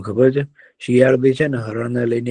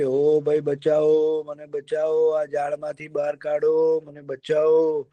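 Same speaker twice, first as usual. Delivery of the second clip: mock cry for help; 4 semitones higher, 4 dB quieter, slower than usual. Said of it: "હરણભાઈ તો એ રાડો પાડ્યો કે".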